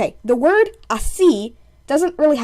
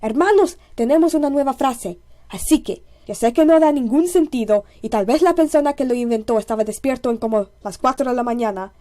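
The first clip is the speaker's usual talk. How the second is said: mock Spanish inventor; faster than usual. A Spaniard pitching a new phrase to his brothers, lightly acted announcement. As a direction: address the brothers, lightly in character, speeding up. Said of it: "when the Spanish first came up".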